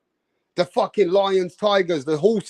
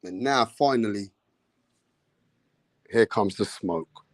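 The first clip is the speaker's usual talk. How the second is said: low announcer tease; 9 semitones lower, 8 dB quieter than usual. Acted. Announcing the fight, first take.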